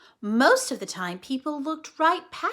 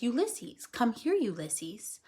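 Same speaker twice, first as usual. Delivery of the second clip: soft, slow gentle call; coaxing; 2 semitones lower, 5 dB quieter than usual. Acted. Flora calling the squirrel to her, soft and slow. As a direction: coax him close.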